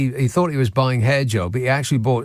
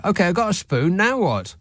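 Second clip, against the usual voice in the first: exasperated; 5 semitones higher than usual. Real, not acted. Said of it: "That was the worst explanation ever".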